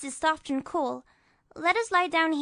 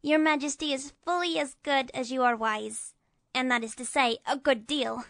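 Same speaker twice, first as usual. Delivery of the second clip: put-on high-pitched grateful boy; 12 semitones higher than usual. A narrator's reading. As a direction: thank them in a high boy's voice. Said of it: "exclaimed Tip gratefully".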